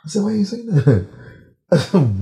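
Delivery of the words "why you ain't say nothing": high, indignant complaint; mock outrage, pitched way up; dead mad. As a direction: re-enact an exasperated confrontation. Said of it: "You was dead mad".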